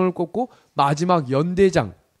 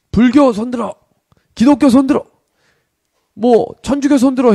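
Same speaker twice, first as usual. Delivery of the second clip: loud, high barked military order; commander's roll-call shout; 6 semitones higher, 7 dB louder than usual. Acted. Company commander to seated recruits, shouted order.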